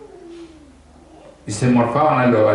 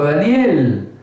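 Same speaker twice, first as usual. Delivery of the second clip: slow, high, sorrowful plea; a grieving king asking his friend if God saved him; sad voice; 5 semitones higher, much slower than usual. Acted. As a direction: drag out each phrase as if dreading the answer. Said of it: "con voz triste le dijo".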